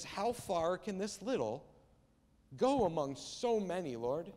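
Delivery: slow, wondering question with a lift at the start; inquisitive wonder. Acted. Andrew asks Jesus how far so little can go, inquisitive wonder. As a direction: ask it in open, curious wonder. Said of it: "inquisitive sense of wonder".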